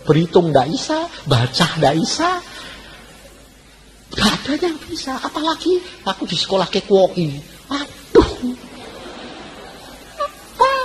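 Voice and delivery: mock-tearful plea, pitch jumping high; retold tearful prayer. Struggling pupil crying to God after school, acted tearful complaint. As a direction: act out a distressed complaint to God. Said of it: "Pulang nangis".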